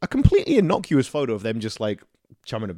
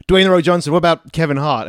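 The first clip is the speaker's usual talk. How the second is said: rising, louder eager pitch; excited pitch; 5 semitones higher, 5 dB louder than usual. Retold or imitated. Social media team pitching a pairing, eager and louder. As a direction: sell the idea hard.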